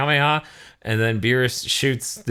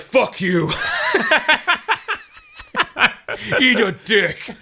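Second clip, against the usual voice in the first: mock angry retort; 12 semitones higher, slower than usual. Rival answering Goku after catching him, mock angry retort. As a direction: spit back a cartoon rival's comeback, pitched up. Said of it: "and he's like".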